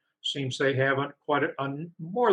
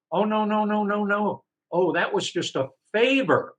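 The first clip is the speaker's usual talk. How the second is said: higher, brushing-off mock voice; mock evasive Mario; 8 semitones higher than usual. Mario dodging the author's refund demand, higher and dismissive. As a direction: wave it away like it was nothing.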